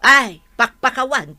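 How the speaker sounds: loud sigh of exasperation on ay; loud fed-up exclamation; exasperated outburst. Acted. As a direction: cry out, fed up.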